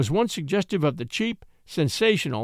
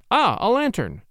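higher, louder glad cry; cried out; 5 semitones higher, 4 dB louder than usual. A narrator's reading. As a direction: cry out on spotting the lantern. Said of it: "cried Crosby".

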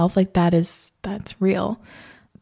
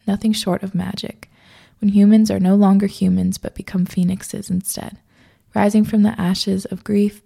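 poetic caption reading. Acted. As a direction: read it like a heartfelt poem, dropping to a whisper. Reads her caption aloud.

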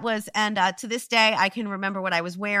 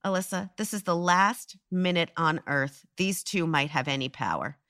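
retold pep talk, low and softer; calm reassurance; 5 semitones lower, 4 dB quieter than usual. Woman retelling how an adult consoled her, calm reassurance.

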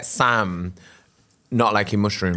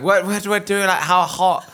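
high panicked question; 9 semitones higher than usual. Retold or imitated.

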